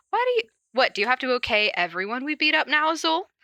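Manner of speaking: a petulant high-voiced complaint; Floyd's indignant protest. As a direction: protest with sudden high pitch. Floyd's protest read as character.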